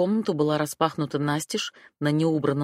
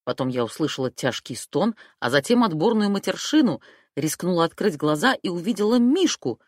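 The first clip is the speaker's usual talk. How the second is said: ordinary delivery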